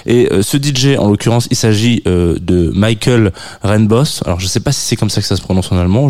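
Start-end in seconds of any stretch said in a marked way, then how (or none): 2.7-4.2 Michael Renbos said slowly with an English accent, MY-kul; an English reading of Michael Renbos, drawn out. Shown as a demonstration. Radio host jokingly anglicising the German DJ's name, English accent. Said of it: "je le prononce un peu à l'anglaise".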